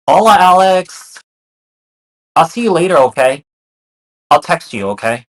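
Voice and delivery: high, loud, sing-song farewell; sweet goodbye voice. Retold or imitated. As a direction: act out a breezy goodbye. Voicing the partner saying goodbye.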